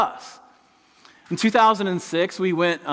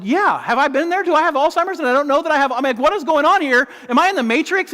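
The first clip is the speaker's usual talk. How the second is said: high, louder, fast panicked questions; higher, louder mock bewilderment; 9 semitones higher, 4 dB louder than usual. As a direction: play it like you're losing your mind. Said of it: "I said".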